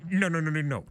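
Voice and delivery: loud high rapid correction; insistent no. Acted. Discord correcting the clerk, loud insistent. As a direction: stop him loudly.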